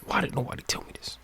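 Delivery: ordinary talk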